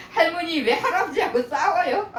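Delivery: a hint of a child, amused; granddaughter. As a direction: imitate a grandchild's puzzled question. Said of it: "우리 손녀딸이".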